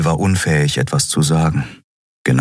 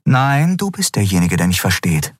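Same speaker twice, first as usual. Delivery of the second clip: put-on higher young woman, insistent; Endriel's voice; 6 semitones higher than usual. A narrator's reading. Endriel arguing with Keru, higher insistent young voice. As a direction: lift into her earnest pleading.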